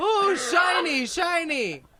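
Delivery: put-on spaced-out stoned voice, very high, wondering. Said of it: "completely lost his shit".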